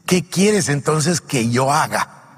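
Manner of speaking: slow, earnest plea to the Lord; slow pleading question. Shown as a demonstration. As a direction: draw it out slowly, humbly. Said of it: "su primera reacción dice".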